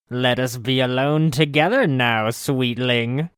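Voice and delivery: hissed. Acted. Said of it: "she hissed".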